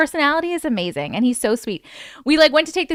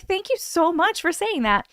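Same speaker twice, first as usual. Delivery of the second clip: retold gushing thanks; 5 semitones higher than usual. Retells thanking the actor.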